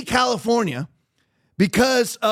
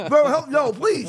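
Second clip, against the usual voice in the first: begging for my life; 6 semitones higher, slower than usual. Pretend. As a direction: beg for mercy half-joking. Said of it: "begging for mercy".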